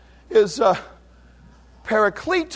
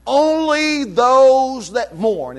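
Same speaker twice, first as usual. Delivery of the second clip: very slow, "Only those that mourn" drawn out word by word; emphatic; much slower than usual. Shown as a demonstration. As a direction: spell out "Only those that mourn" slowly with weight on "Only". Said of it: "It's emphatic".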